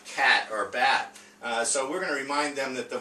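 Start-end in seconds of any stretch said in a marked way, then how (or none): 0.1-1.2 "cat" and "bat" spoken slowly and clearly, short a drawn out; slow, careful word reading. Shown as a demonstration. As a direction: read each word out slowly for young readers. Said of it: "certain words like nap".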